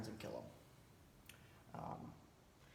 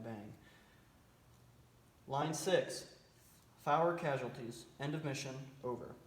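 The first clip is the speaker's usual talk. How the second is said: calm radio fire call; slower than usual. Shown as a demonstration. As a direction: read each line like a radio operator. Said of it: "here's what the transmission might sound like".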